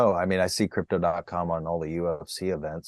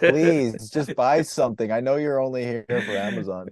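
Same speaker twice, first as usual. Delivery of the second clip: begging for a sale, played for laughs; desperate pleading; 3 semitones higher than usual. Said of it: "they're so desperate there".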